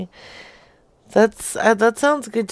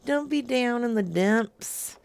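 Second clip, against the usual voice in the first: playful consoling; 6 semitones higher, 13 dB louder than usual. Real, not acted. Playfully consoling depressed co-host.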